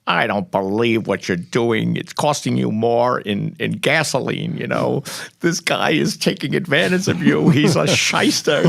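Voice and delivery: slow, high ranting imitation; angry father. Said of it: "like, so angry. He was like".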